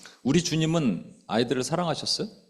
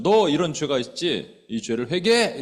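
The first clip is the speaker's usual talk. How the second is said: slow, louder stern rebuke; stern old-time pastor; 2 semitones higher, 4 dB louder than usual. Retold or imitated. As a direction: call out the sin like a stern preacher. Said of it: "이렇게 했다고요". (옛날 목회자가 죄를 지적하듯 엄하고 느리게)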